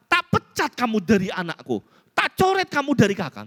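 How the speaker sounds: high-pitched mock parental outburst; acted disowning. Parent threatening to disown a naughty child, high mock anger. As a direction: declare it like a parent at wit's end.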